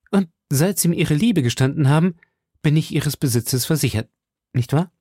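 a hint of an eager suitor; D'Artagnan voiced. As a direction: press her gently for an answer. D'Artagnan pressing Milady.

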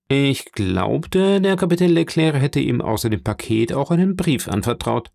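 a hint of a sly informer probing; insinuating Danglars. (leicht angedeuteter lauernder Intrigant)

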